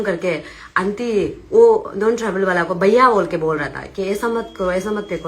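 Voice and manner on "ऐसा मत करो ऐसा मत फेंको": retold gentle plea, a touch softer; mild imitation of a soft, polite request; polite pleading request. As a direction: ask nicely, not demanding. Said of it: "request कर रहा था बेचारा वो जो बहुत प्यार से".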